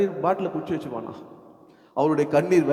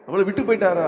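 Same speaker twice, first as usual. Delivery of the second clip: raised, anxious question; mild mock alarm, pitched up; acted worry; 4 semitones higher, 3 dB louder, faster than usual. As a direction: ask as if left behind. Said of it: "அப்படின்னு பயப்படுறோம்".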